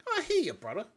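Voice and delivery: gruff Bronx tough-guy con; thick Bronx accent. Acted. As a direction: lay on a heavy Bronx accent. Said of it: "such a thick Bronx accent".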